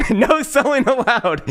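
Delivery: high, laughing sarcastic No selling allowed; mock hype. Mocking the no-sell token, high sarcastic laugh-line.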